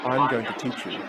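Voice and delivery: soft, low mentor voice; hushed and deliberate offer; teacher's solemn promise. Retold or imitated. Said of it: "She says".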